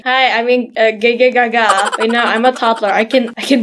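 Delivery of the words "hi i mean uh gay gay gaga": put-on playful babbling in baby talk; goo-goo baby babble. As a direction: babble like a toddler who can barely talk. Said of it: "Well, baby talk".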